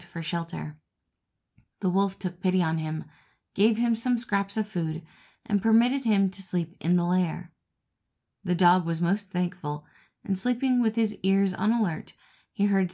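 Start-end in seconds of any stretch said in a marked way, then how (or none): none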